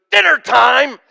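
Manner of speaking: high, loud call to the table; Mike. Retold or imitated. Comic host calling the others to the smoke, hollered. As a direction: holler it like a summons to eat. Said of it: "he goes".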